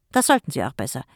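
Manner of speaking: loud, sharp snap; snapping. Acted. Jim refuses to mind the kids, loud snap. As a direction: bite back at your brother. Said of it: "fauchte Jim".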